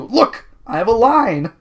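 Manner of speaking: high, loud interjection; Aja. Acted. Aja interrupting with her line, high loud voice. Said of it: "Aja interrupts you".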